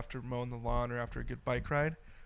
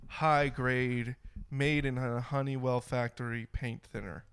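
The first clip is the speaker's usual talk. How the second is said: unenthusiastic ad read. Pretend. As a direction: plod through the sales pitch. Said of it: "lack of enthusiasm in that was just stellar".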